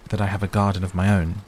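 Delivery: Mary stammers to the gardener about a garden; stammering. Acted. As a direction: falter shyly over the words. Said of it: "she stammered".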